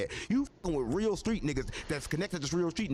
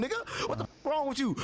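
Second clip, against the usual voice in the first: sudden high-pitched raised tone on one word; 6 semitones higher than usual. Shown as a demonstration. Showing a podcast host how his family talks, raised tone. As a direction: show him the raised tone you grew up with. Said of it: "We talk with a raised tone".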